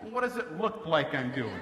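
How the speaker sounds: slow, deadpan sarcasm; sarcastic. Retold or imitated. Dad on the toilet answers his kids, sarcastic. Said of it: "They don't get sarcasm".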